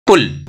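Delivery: पुल with a quick, short u; short vowel drill. Shown as a demonstration. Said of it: "practice करेंगे short vowels का". (पुल में छोटा उ)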